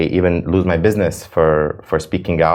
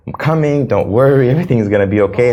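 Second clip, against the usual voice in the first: high, louder urgent reassurance; reassuring call; 6 semitones higher, 4 dB louder than usual. Retold or imitated. To the girl in Gaza, high urgent reassurance. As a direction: promise her help is on the way. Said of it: "I was like".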